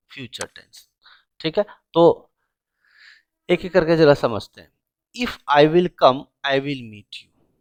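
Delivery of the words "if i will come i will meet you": slow, drawn-out wrong sentence; wrong version, slowed. Shown as a demonstration. Teacher slowly reads the wrong sentence to students. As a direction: spell out each word slowly. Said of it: "गलत बात".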